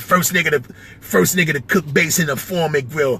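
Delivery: battle rapper impression; lightly impersonated rap line, spoken as a diss; a rapper. Rapper battling another rapper, light rapper impression. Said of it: "I know him a little bit".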